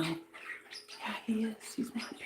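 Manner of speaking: soft unvoiced whisper so the bird sleeps on. Real, not acted. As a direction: hush it, breath only, no voice. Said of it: "That's why I'm whispering".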